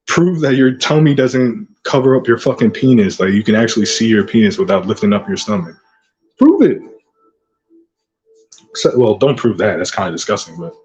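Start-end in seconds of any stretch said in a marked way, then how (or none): 6.4-6.8 shouted dare. Acted. Taunting a rival vlogger.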